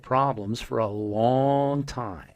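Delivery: slow, drawn-out psychic reading voice. Pretend. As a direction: read his fortune like a stage psychic, slowly. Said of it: "I'm gonna act like I'm a psychic".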